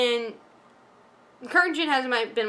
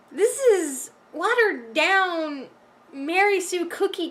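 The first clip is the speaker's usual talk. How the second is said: exasperated rant; 4 semitones higher, slower than usual. Retold or imitated. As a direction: vent like you can't believe what you're watching. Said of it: "it was just like".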